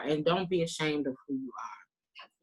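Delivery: soft unvoiced plea to the room; whispered encouragement to be yourself; whispered urging. Real, not acted. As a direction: breathe it out like a secret. Urging the audience, dropped voice.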